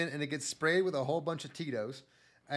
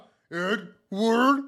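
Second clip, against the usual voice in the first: slow, high, louder mournful cry; dramatic lament; 8 semitones higher, 8 dB louder, much slower than usual. Retold or imitated. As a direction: draw it out like a tragic hero. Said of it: "And you're like".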